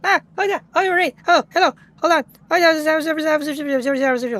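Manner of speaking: loud, high, bursting greetings; excited raid welcome. Real, not acted. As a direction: welcome the raiders with a shout of joy.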